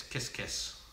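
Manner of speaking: kiss, kiss breathed soft and voiceless; whispered kisses. Real, not acted. Sending kisses back to viewer Baby Kate in a whisper. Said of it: "Baby Kate".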